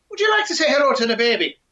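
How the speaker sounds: high, quick, coaxing wife's voice; sing-song hostess offering the baby; Una's sweet voice. Acted. Una sweetly offers the baby to the visiting giant.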